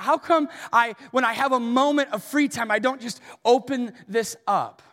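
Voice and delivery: earnest rising sermon questions; preaching. Real, not acted. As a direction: press the congregation with urgent questions.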